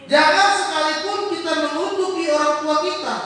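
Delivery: loud, high preaching; forceful warning. Real, not acted. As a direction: hammer the warning home.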